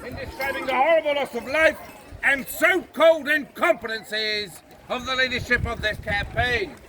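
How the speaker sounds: stiff Victorian officer oratory; rousing patriotic speech. Acted. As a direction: address the crowd with imperial pomp.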